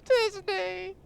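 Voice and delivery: high, loud, excited shout of Disney; high excited yell; excited cry. Real, not acted.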